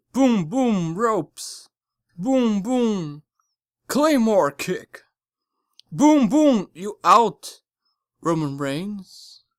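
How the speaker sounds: loud punchy match call; excited re-enactment. Retold or imitated. Recounting the match finish to viewers, excited. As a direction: act out the finishing blows with force.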